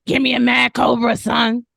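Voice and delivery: gruff deep-voiced malt liquor guy; low magnetic voice. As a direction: bark the order in a deep voice. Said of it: "you talk like this".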